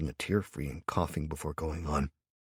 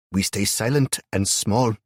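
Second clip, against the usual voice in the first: put-on old woman voice; 6 semitones higher, 7 dB louder, slower than usual. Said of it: "the old woman said".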